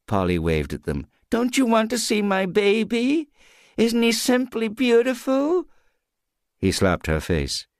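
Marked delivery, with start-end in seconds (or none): 1.3-5.7 high, overbright tipsy reassurance; drunken reassurance. Acted. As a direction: wave off the frightened neighbours. Dronken Polly tegen buren.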